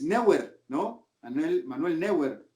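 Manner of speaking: Neuer read as NEH-wer; Hispanicized pronunciation. Retold or imitated. Narrator quotes critics correcting him, Hispanicized pronunciation. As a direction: say Neuer Spanish-style, "NEH-wer", r sounded. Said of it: "cuando es Neuer".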